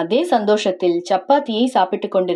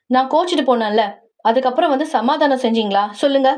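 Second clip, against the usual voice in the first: raised, higher, heated scolding; angry outburst; 4 semitones higher than usual. Acted. Wife scolding her husband for ignoring her, heated and raised. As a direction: pour out the hurt and blame him.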